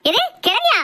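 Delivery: sharp high offended cry; as if she can't believe the insult; mother-in-law stung at being called an old woman; outraged disbelief. Acted.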